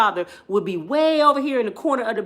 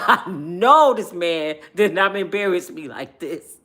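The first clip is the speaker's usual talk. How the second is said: mock indignation; 2 semitones lower, 6 dB louder, slower than usual. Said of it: "I can see it on her face".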